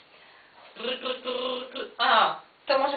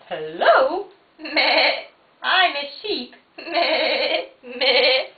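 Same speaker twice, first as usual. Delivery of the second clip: sheep voice; slower than usual. Acted. Voicing a toy sheep.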